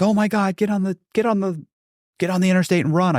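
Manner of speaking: high, mock-panicked voice; frantic urging. Partner urging him to flee police, mock frantic. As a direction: urge escape in a high, frantic imitation.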